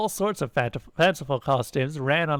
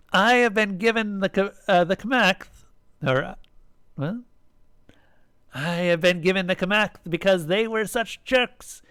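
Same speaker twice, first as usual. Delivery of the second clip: higher-pitched stage announcement; child's clear, declaiming voice; 6 semitones higher than usual. A narrator's reading. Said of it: "announced in a clear voice".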